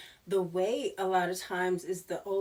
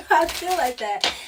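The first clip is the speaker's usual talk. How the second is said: laughing; 8 semitones higher, 10 dB louder than usual. Real, not acted. Laughs at own point.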